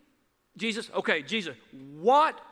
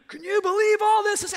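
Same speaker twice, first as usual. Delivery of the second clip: mock outraged Christian; 11 semitones higher, 6 dB louder than usual. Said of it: "We're gonna".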